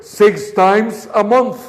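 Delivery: "month" stressed at a slow pace; emphasis on month. Shown as a demonstration. Teacher stresses the frequency so students copy it. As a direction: lean on "month" to mark the frequency. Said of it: "Enfaticen eso".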